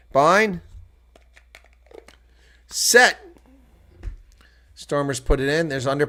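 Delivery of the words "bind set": loud, high barked calls of bind and set; sharp mock referee shouting; referee scrum calls.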